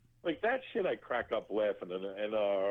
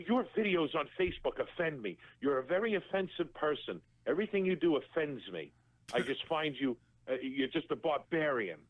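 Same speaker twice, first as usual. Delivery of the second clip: higher, prim scolding voice; mocking offended guest; 5 semitones higher than usual. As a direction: lay out the complaint primly, a bit up.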